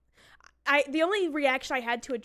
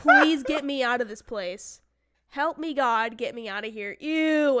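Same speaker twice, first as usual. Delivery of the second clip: hammed-up pleading, louder and slowed; mock despair; 6 dB louder than usual. Bride to her mom and the shop staff, hammed-up louder disgusted pleading. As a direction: beg to be freed from an ugly dress, half-joking. Retelling hating a wedding dress.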